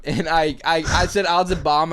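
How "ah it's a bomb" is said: raised, louder mock alarm; quick re-enacted prank shout; retold yell. Teller recalling his second-grade bomb prank, retold yell. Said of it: "to yell".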